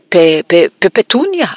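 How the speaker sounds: stuttering gasp breaking into a high cry; stammer, then squeak out the name; choked stammer. A narrator's reading. Shocked uncle gasping for his wife, choked stammer. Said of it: "השתנק".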